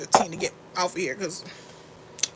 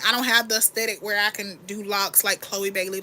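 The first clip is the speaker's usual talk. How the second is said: ordinary delivery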